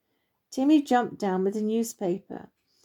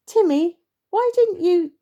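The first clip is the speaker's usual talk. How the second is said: high, loud indignant outburst; exasperated, high-pitched telling-off; exasperated scolding; 10 semitones higher, 7 dB louder than usual. Acted. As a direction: scold the youngster, voice shooting up. Badger starts scolding Timmy, gets interrupted.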